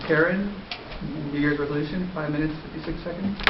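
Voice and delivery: talking around new braces; speaking through a retainer. Real, not acted. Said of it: "Sorry, I have a retained, uh, braces".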